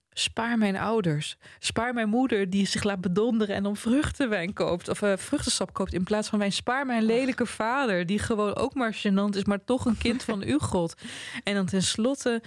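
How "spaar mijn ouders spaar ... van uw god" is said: pleading prayer. Acted. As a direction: read it as a modest plea to God. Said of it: "een smeekbede van".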